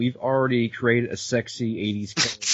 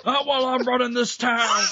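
hammy hero vow; 11 semitones higher than usual. Pretend.

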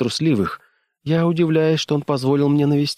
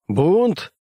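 higher, sharp mock cry of mutiny; shouted out; 8 semitones higher than usual. A narrator's reading. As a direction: fling the word out in alarm. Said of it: "выкрикнул Келлоган".

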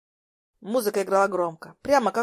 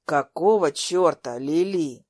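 angry demand; 4 semitones lower, 4 dB louder, slower than usual. A narrator's reading. Lucas confronts her after fall.

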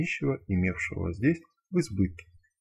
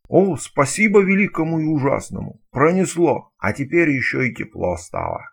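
rowdy joke teller; 3 semitones higher, 7 dB louder than usual. Acted.

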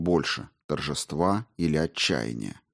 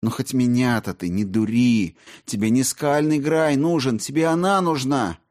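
scornful accusation; 5 semitones higher, 3 dB louder than usual. A narrator's reading.

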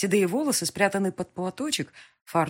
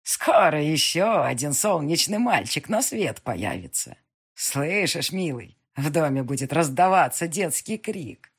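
put-on pleased old witch, slow and loud; a gleeful old witch foretelling; 6 dB louder, slower than usual. Witch rejoices over the baby.

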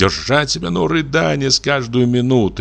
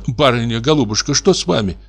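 anxious maid; 4 semitones higher than usual. Acted. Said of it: "спросила встревоженно".

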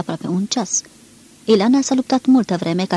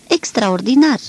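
louder mock astonishment, a touch higher; a lady faking delight; feigned surprise; 3 semitones higher, 4 dB louder, slower than usual. A narrator's reading. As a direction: exclaim it with put-on surprise. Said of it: "exclamă doamna, prefăcându-se surprinsă".

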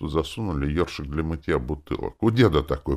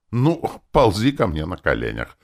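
lordly command; 4 semitones higher, 4 dB louder than usual. Acted. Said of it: "вальяжно велел".

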